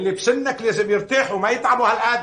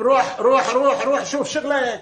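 raised, urgent repeated urging; insistent shooing; 4 semitones higher than usual. Acted. Man sending his friend off to his work, insistent. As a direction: wave him off with rising insistence.

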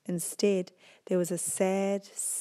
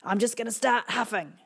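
wolf voice; 4 semitones higher, 4 dB louder than usual. Acted.

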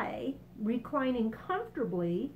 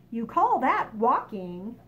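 scornful cry; 6 dB louder, slower than usual. Acted. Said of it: "cried the centipede".

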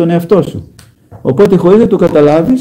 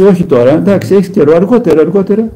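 coaxing devil; 5 semitones higher than usual. Pretend. Devil tempting a sinner to delay confession, coaxing sing-song.

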